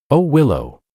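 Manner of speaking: mocking lament. Bitter musing alone in booth.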